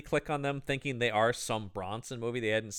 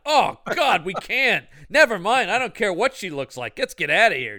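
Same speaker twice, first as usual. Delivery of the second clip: disgusted shout; 5 semitones higher, 5 dB louder than usual. Pretend. Voicing disgusted henchmen.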